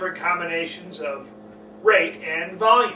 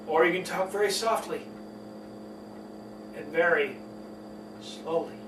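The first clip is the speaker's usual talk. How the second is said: low, hushed, with long pauses; very soft and slow; 5 semitones lower, 9 dB quieter than usual. Shown as a demonstration. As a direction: let each word sink softly and slowly.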